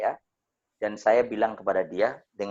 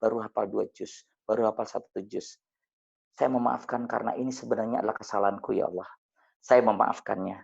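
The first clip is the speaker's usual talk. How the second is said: guided prayer. Acted. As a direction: murmur the prayer as a model for the audience. Leads a forgiveness prayer.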